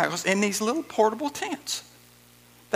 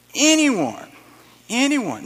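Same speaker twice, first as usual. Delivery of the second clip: loud, higher call of anyone; 6 semitones higher, 7 dB louder, slower than usual. Acted. Preacher echoing Jesus' call to the crowd, loud. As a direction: call it out like an invitation to everyone.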